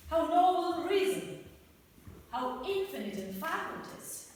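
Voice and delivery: grand Shakespearean recital, swelling and sinking; theatrical soliloquy. Acted. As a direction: declaim it like a tragic prince on stage. Hamlet recites his soliloquy.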